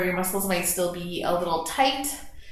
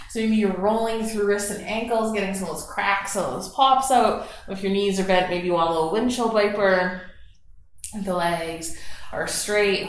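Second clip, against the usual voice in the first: calm guided meditation voice; guided relaxation. Acted. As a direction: ease the class into their breath. Cues stretches and breathing.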